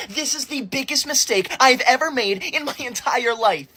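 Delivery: hammed-up anguish over a wrong answer; melodramatic despair. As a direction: lament as if life has ended.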